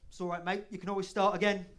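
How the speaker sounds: loud, lightly voiced British pub mate; hearty British bloke's reassurance, lightly hammed-up; matey British drinker. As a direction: egg a mate back into drinking. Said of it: "you tell a British person".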